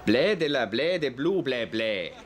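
fake French gibberish.

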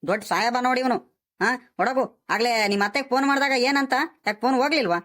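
mildly angry telling-off; cross scolding. Acted. Grandfather rebukes grandson for not coming when called, cross. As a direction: scold the boy with a touch of annoyance. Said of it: "ಯಾಕೆ ಹಿಂಗ್ ಕೋಪ ಮಾಡ್ಕೊಂತೀಯ".

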